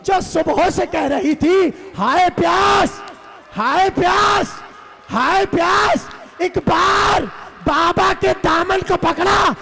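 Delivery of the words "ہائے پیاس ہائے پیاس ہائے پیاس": put-on thirsty child's lament. Thirsty little girl crying since morning, anguished wail. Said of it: "اتنی پیاسی بچی".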